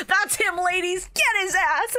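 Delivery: high-pitched mock rallying cry; rally the ladies to attack, hammed-up; middle-aged book-club woman. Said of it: "middle-aged women who see him".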